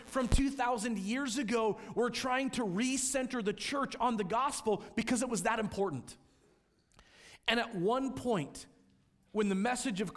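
preaching at full force. Acted. Pastor urging his congregation, preaching at full force. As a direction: preach it out with rising fervor.

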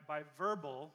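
normal talking voice

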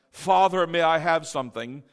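stiff, formal request with a loud opening; hammed-up formal politeness; mock formal. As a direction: ask as if addressing a very proper father. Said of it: "most of us don't talk like that".

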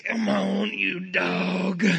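strained southern drawl imitating dad wrestling a stuck bolt; Texan southern accent. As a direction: mimic a Texan dad straining at a tight screw. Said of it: "come out in this southern accent".

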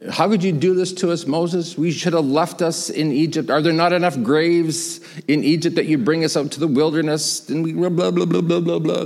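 mock whine running into blah-blah; lightly hammed-up grievance; whining and complaining. Israelites blaming Moses at the Red Sea, mock whining. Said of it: "they're whining and complaining".

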